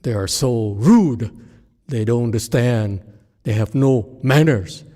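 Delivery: a hammed-up student griping about manners; complaining student. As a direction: whine about rude people, half-mocking. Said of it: "You say".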